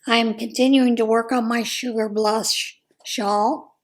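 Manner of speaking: ordinary talk, nothing marked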